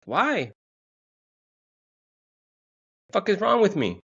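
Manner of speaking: high, wailing self-reproach; mock despair. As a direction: wail it high in comic exasperation. Acted wail after being left.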